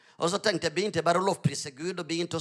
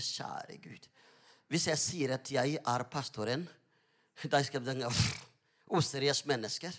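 a nervous secret plea, lower and softer; whispered prayer; 6 semitones lower, 9 dB quieter than usual. Retold or imitated. Pastor fears answering what his job is, whispering. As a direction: whisper it, worried, to God alone.

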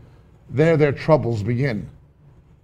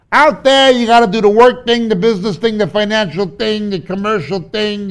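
hurried, exasperated list; 8 semitones higher, 8 dB louder than usual. Acted. Listing chores, rising excitement.

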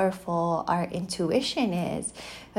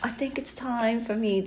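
higher, put-on New Zealand accent; 5 semitones higher than usual. Wife mimics husband working up to a date, imitated New Zealand accent. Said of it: "This is my best accent".

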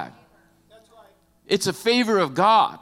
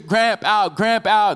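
put-on crying toddler; 4 semitones higher, 4 dB louder, slower than usual. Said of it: "the baby's".

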